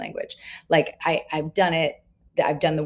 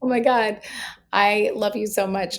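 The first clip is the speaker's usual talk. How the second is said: gushing relief; 6 semitones higher than usual. Retold or imitated. Relieved mom to daughter.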